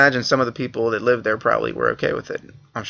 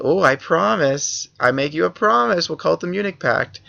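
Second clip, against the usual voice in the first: mock Hitler promise; 5 semitones higher than usual. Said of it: "he said".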